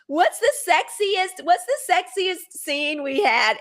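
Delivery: drawn-out teasing ask. Retold or imitated. Carrie asking the man about their sexiest scene, slow and coy. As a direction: stretch it slowly like a coy tease. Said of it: "She wants to know".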